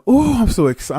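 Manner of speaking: high, gushing delight; mock excited. Newcomer thrilled by the contract, high and gushing. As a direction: squeal with joy. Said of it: "And you going".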